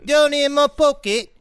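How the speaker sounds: mock Yorkshire accent, slipping about; bad British accent drifting toward Mrs Doubtfire; wobbly Yorkshire accent. Joking to co-hosts about a salamander, in a wobbly mock British accent. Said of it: "goes from Missus Doubtfire to chimney sweep".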